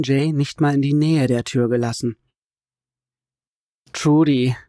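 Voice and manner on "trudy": sobbing. A narrator's reading. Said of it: "schluchzt Will".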